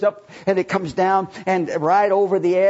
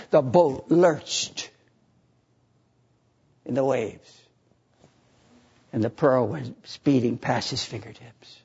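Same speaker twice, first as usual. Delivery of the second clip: solemn fade; 5 semitones lower, 4 dB quieter than usual. A narrator's reading. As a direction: let the loss sink in. Dramatic fall of story.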